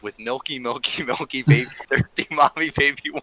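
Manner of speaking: put-on goofy baby-talk rant, giggling; hammed-up silly baby voice; silly clown. Absurd mock confession bit.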